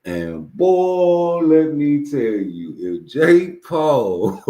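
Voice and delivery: high, slow, loud build-up; hyped buildup. Real, not acted. Setting up the joke for viewers, hyped and high. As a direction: wind them up for the punchline.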